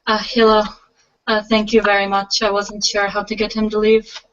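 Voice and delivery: a hint of a Russian accent; lightly Russian-accented young woman. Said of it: "speaking in a light Russian accent".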